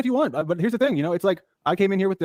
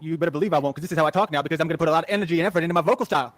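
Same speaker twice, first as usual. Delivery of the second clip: a lightly deepened tough-guy voice; put-on deep voice. Shown as a demonstration. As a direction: hold a slightly deeper, tougher voice. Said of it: "change it to be like I would be if I was in prison".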